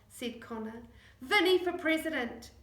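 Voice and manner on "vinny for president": louder, higher mock cheer; loud teasing cheer; cry. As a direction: cheer it like a rally. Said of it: "cried Tu".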